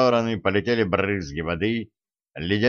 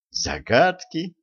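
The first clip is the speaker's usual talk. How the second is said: выше и медленно, не веря ушам; переспросить в полном недоумении; изумлённо; 8 semitones higher, slower than usual. A narrator's reading. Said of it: "не поверил своим ушам ведун". (ведун не верит своим ушам)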